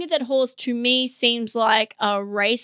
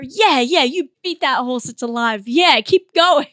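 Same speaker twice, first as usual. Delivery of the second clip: mock encouragement; 4 dB louder than usual. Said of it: "you're at a meeting".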